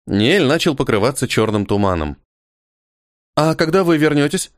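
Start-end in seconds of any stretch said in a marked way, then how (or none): 3.4-4.5 abrupt. Acted. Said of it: "отрывисто спросила Йерта".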